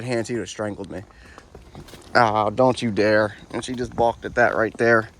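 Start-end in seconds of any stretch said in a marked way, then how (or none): 2.1-3.4 slow gentle warning. Real, not acted. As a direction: ease her off it, slow and calm. Warning the horse as she balks.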